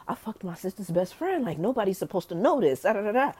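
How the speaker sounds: mock secretive excitement; retold guilty excitement. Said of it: "it's still exciting".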